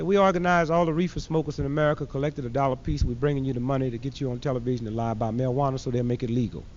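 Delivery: low, fast, mumbled pitch. Retold or imitated. Hippie pitching the professor, low fast mumble. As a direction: rush the offer out low and quick.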